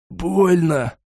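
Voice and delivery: a light hoarse wheeze of pain. Acted. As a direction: rasp the word out, lightly hurt. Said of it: "прохрипел Фриенбагер".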